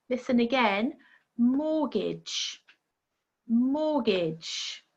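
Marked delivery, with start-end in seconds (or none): 1.4-2.6 mortgage, T left out, falling tune; mortgage with silent T. Shown as a demonstration. Teacher asks learners to listen again, mortgage with silent T. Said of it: "it's a silent T". 3.5-4.8 mortgage, T left out, falling tune; mortgage with silent T. Shown as a demonstration. Teacher asks learners to listen again, mortgage with silent T. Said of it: "it's a silent T".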